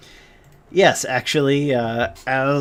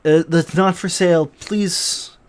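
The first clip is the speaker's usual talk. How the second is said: raised, pleading shopkeeper; higher-pitched, beseeching appeal; imploring; 5 semitones higher, 3 dB louder than usual. Acted. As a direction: plead with a customer to leave it be. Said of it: "he looks very imploringly".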